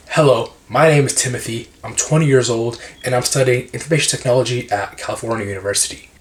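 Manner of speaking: plain American English delivery; American accent. Shown as a demonstration. Same job intro in an American accent. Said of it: "one was American".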